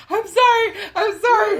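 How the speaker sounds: high, loud laughing apology. Retold or imitated. Apologizing to Bill while cracking up. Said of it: "I was cracking up crying".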